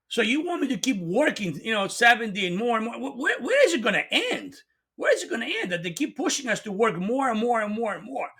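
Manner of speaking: getting worked up, pushing the question. Real, not acted. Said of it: "So I'm getting a little bit excited".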